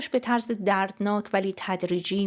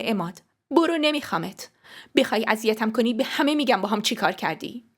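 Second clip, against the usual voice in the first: mildly raised angry threat; angry dismissal; 2 semitones higher than usual. Acted. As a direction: warn him off in anger. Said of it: "با عصبانیت انگشتری که بهم داده بود".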